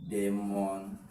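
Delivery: demonstrative split up, low and soft, with pauses; low, soft "demonstrative", broken between syllables. Shown as a demonstration. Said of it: "We have the C option".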